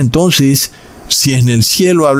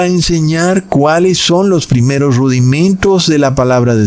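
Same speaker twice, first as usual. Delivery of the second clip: scripture reading. Acted. Reads Hebrews aloud.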